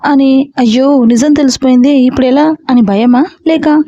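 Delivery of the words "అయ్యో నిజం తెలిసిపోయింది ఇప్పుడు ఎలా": plain reading voice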